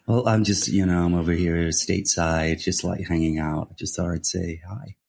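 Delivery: lightly faked American accent; laid-back attempt at an American accent. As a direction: play a casual American hanging out stateside. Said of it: "Is that your American accent?".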